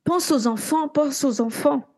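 cri retenu, nettement plus aigu; cri imité. Retold or imitated. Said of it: "elle crie". (cri mimé, aigu, sans forcer la voix)

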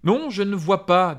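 a hint of a stern wizard, slowly; stern Gandalf. A narrator's reading. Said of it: "dit Gandalf avec sévérité". (Gandalf sévère, lentement)

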